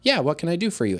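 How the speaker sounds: obliging, easygoing teacher; kind offer of help. Acted. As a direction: approach a student kindly, voice lifted. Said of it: "offer ... a kind, like".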